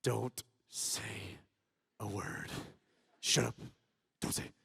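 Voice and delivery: low, soft urgent plea; will the group to stay silent; tense under-the-breath command; hushed warning. Retold or imitated. Silently willing others to stay quiet.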